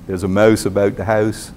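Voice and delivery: Tidewater Virginia vowels in "mouse", "about", "house", close to long O; Tidewater Virginia accent. Retold or imitated. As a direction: demonstrate the Tidewater Virginia "ou" sound. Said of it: "My Tidewater, Virginia cousins say".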